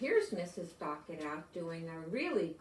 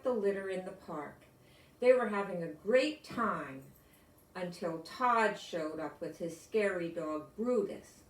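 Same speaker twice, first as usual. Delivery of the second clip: storybook reading; 3 dB louder than usual. A narrator's reading. Reads picture book to class.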